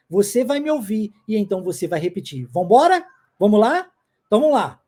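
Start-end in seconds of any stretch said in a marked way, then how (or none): 2.5-4.8 chamando a turma, mais alto e animado. Real, not acted. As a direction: convocando os alunos com energia. Professor chama alunos para começar. (chamando empolgado para começar)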